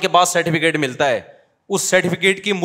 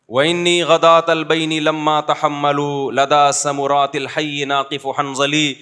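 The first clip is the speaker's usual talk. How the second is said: measured classical Arabic verse recital; poem recitation; 3 semitones lower than usual. Acted. Scholar quoting a pre-Islamic poet to students, recited. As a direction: declaim the old Arabic couplet with weight.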